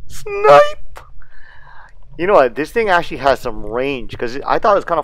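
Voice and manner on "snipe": high, sharp burst of triumph; excited shout. Real, not acted. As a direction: yell it as the spear flies. Spearing a fish, exclaiming.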